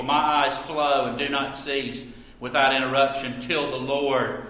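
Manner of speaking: scripture reading. Acted. Pastor reads Jeremiah's lament to the congregation, subdued scripture reading. Reads a Bible verse aloud.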